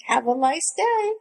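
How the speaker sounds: lightly voiced breezy husband, lifted pitch; mock easygoing cheer; chill husband. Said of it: "he's still be chill".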